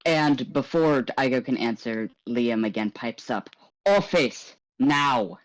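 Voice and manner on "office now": sharp order. Acted. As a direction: snap the order at her.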